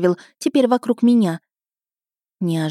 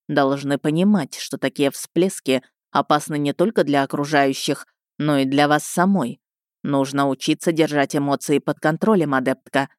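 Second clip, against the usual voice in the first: stern rector voice; 5 semitones lower than usual. Acted.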